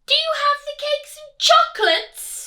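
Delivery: high, loud greedy shout; robber cries out. Acted. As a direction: shout the demand into the cave. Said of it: "the highway robber cried".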